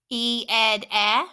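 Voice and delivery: "ed" with a clipped short E, then the bare sound; vowel sound drill. Shown as a demonstration. Teacher modeling the short E sound for students. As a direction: say the short E cleanly and isolate it. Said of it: "at our vowel sounds".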